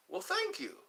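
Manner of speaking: high southern thank you; high sweet southern accent. Pretend. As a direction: drop back into the southern voice. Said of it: "There's my southern accent".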